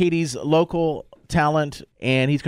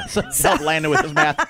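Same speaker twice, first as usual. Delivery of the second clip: laughing while talking; 3 semitones higher than usual. Real, not acted. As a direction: chuckle through the words. Host laughs at teasing.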